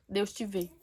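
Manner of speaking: soft, measured and sincere; quiet solemn declaration. Retold or imitated. Woman praying for stranger in street, quietly solemn. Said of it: "Eu falei com ela desse jeito".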